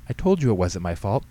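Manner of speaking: mild I-told-you-so; vindicated. Acted. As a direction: make the point, a touch smug. Vindicated daughter repeats her claim.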